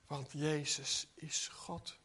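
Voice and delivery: slow, breathy whisper of awe; hushed whisper. Real, not acted. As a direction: drop to a whisper for the truth. Key truth stated hushed. (zacht gefluisterd)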